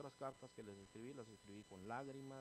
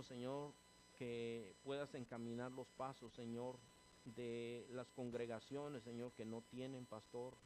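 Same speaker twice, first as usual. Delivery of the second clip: earnest pleading prayer, calling Señor Padre; closing prayer. Acted. Pastor praying to God for the church, fervent pleading prayer. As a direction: pray over the congregation, fervent and steady.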